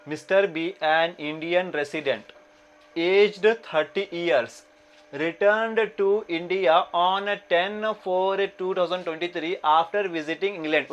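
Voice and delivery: slow, measured reading aloud; question read-out. Acted. Teacher reads the exam problem to students, slow read-out. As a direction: read it out slowly, word by word.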